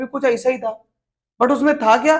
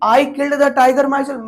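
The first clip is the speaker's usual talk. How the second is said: slow dictation; much slower than usual. Shown as a demonstration. Dictating an example sentence.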